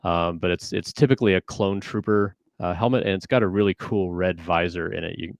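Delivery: muffled through a helmet; talking from inside a costume helmet. Real, not acted. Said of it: "We can't hear you".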